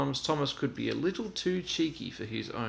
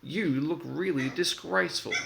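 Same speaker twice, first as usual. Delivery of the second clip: teasing; 6 semitones higher than usual. A narrator's reading. Percy teasing Thomas.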